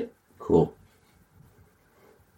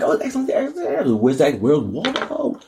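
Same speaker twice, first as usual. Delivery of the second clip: mock cheerful; 5 semitones higher than usual. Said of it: "And probably like".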